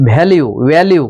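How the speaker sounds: shape the v in ভ্যালু lightly with the lips; v between b and bh. Shown as a demonstration. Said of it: "এইভাবে উচ্চারণটা করতে হয়".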